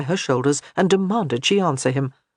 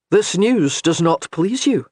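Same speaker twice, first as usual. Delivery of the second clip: a lightly voiced stern husband, slow; slow, measured warrior's question; Gabriel, stern husband; 2 semitones higher, 4 dB louder, slower than usual. A narrator's reading.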